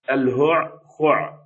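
الهعقع slowly, each throat consonant sounded apart; heavy pronunciation. Shown as a demonstration. Teacher quoting a herder's hard word, الهعقع slow and separated. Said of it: "ثقيلة".

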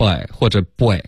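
put-on boy said as "bway", a "way" sound inside; common mispronunciation. Shown as a demonstration. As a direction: show both mistaken versions of boy. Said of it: "有一个way的这个音".

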